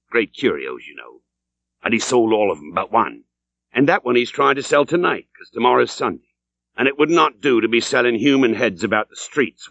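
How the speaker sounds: a lightly voiced old landlord, sly and chummy.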